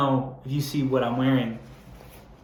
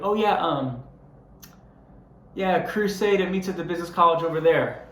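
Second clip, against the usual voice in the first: higher, vague brush-off; offhand churchgoer; 4 semitones higher than usual. Pretend. Churchgoer waving off a fearful visitor, lightly mocked. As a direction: point them away without caring. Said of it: "just be like".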